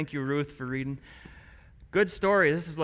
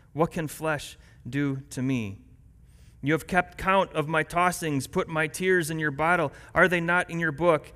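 scripture reading. Acted. Pastor reading Psalm 56 to the church, earnest reading. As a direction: read the psalm to the congregation. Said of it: "Listen as I read Psalm".

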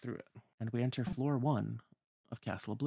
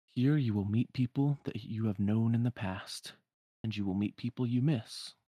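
cryptic hooded man; 3 dB louder than usual. Acted. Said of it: "then the man says again".

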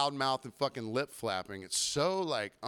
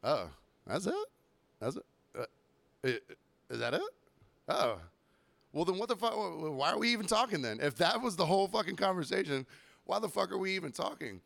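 mock disbelief; 6 semitones higher than usual. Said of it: "I was like".

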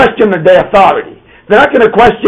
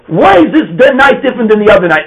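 put-on child asking properly; 5 semitones higher than usual. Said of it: "Instead, we say".

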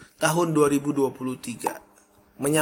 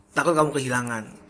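normal talking voice

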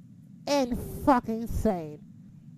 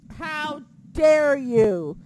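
mock outrage; 3 semitones higher, 8 dB louder, much slower than usual. Outraged at chanting crowd.

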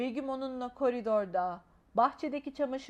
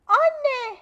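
put-on high, very loud desperate child's cry; louder call; 12 semitones higher, 12 dB louder than usual. A narrator's reading. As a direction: yell it, now frantic. Child calls mother again louder. (daha yüksek, çaresiz bir bağırış)

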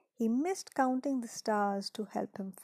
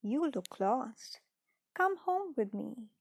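kind voice. Acted. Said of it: "a man's kind voice".

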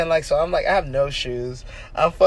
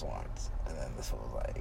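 whispered narration; 18 dB quieter than usual. Real, not acted. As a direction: breathe it under your breath.

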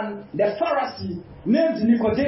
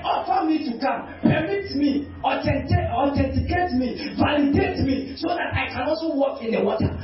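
pleading Peter. Acted. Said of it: "He said".

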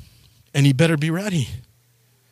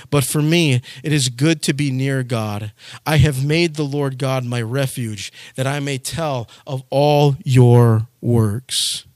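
solemn scripture reading; slower than usual. Acted. Pastor reading the closing verse to his flock, slow solemn reading. Psalm verse read in lectern voice.

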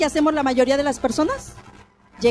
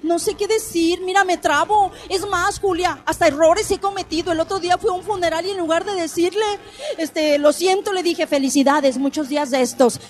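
lightly voiced flustered friend, a bit higher; nervous acquaintance quoted; 5 semitones higher than usual. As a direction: confess the blunder like an embarrassed friend. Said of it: "Hay gente que me dice". (amiga nerviosa imitada con voz un poco más aguda)

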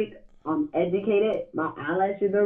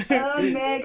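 sped-up squeaky phone audio; high squeaky chipmunk voice over the line; 5 semitones higher than usual. Real, not acted. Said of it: "your phone doing that, um, chipmunk voice again".

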